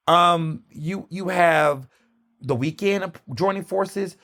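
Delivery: ordinary delivery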